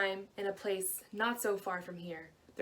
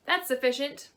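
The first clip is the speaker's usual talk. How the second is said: higher, louder, rising acceptance; pleased little man; 5 semitones higher, 5 dB louder than usual. A narrator's reading. Tiny man accepting the ring, higher and pleased. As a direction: seal the deal gleefully.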